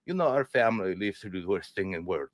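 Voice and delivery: lightly voiced grave father; grim dad. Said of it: "He's like".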